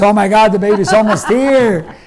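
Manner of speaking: a hint of a startled nurse; alarmed nurse. Nurse's alarmed discovery acted out.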